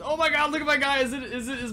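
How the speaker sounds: high, loud burst of surprise; startled amazement. Real, not acted. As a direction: blurt it out in disbelief. Sees character glitched.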